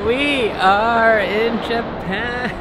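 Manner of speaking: slow, drawn-out, high and happy; excited announcement. Real, not acted. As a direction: stretch it out like a big reveal. Arriving at hotel, announcing.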